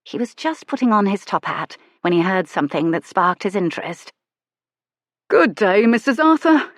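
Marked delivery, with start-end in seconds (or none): 5.3-6.7 high, loud cheery shopkeeper; shopkeeper's greeting. Acted. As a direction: call out a friendly good day.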